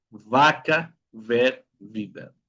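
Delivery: "Vaca, ver, vida" with upper teeth on lip; labiodental V. Shown as a demonstration. Teacher modelling for students, "Vaca, ver, vida" with labiodental V. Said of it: "dientes superiores sobre el labio inferior".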